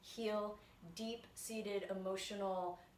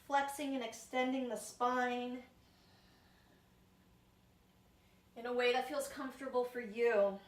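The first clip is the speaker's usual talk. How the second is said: yoga guidance; 2 semitones higher than usual. Real, not acted. Teacher leading viewers through spine warm-up, measured yoga guidance. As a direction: guide the movement with long pauses between phrases. Guides slow yoga movement with long pauses.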